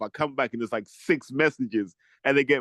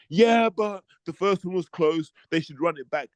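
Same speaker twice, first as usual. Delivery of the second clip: mock fan voice; 5 semitones higher than usual. Mocking fans who want rematches.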